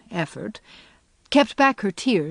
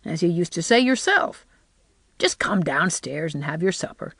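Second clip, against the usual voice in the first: briskly. Acted. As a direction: brush it off briskly and move on. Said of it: "she said briskly".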